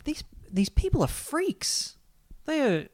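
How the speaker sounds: mock disgust. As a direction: drag it out like you can't believe it.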